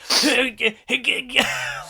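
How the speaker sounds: high, choppy grunts of struggle; mock stuttering strain noises; struggling noises. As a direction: imitate straining against vines. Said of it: "you're just, like ... struggling in the vines".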